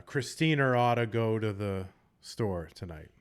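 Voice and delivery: CHRISTINA OUGHT said as "Christiner ought"; linking R. Shown as a demonstration. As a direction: add a Boston R between Christina and ought. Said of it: "they will put an R in between them".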